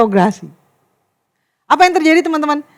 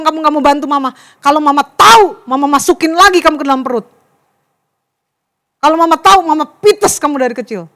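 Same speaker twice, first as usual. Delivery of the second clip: scolding mother. Acted. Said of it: "Seorang ibu bilang gini".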